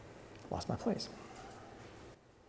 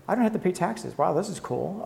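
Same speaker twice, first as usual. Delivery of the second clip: mock delight; 4 semitones higher, 3 dB quieter than usual. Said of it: "this is the part where you go".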